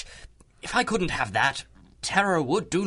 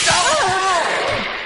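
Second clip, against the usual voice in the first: sudden high, loud yelp of surprise; startled cry; 7 dB louder than usual. Acted. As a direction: jolt out a shocked oh. Horace caught by surprise.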